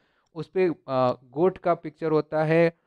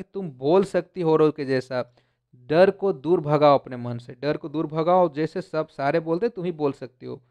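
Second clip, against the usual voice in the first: affectionate. Acted. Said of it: "स्नेहपूर्वक उसने बोला कि".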